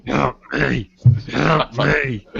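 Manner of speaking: trying the gritted-teeth scream voice; strained Sonic impression. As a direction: squeeze it out from the back of the throat. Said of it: "You talk like this for the rest of the episode".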